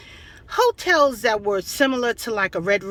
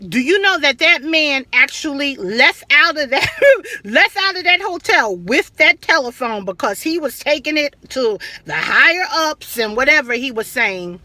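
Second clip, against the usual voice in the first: talking through laughter; real laughing retelling; 3 semitones higher, 4 dB louder than usual. Real, not acted. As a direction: laugh while you tell it. Laughing while telling.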